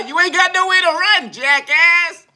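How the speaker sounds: loud, high, laughing at himself in panic; panicked laughing yell. Acted. Laughing yell at himself as the pit bull charges.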